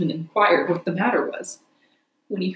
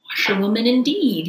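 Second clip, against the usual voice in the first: reckless shout; 3 semitones higher, 4 dB louder than usual. Acted. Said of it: "he shouted recklessly".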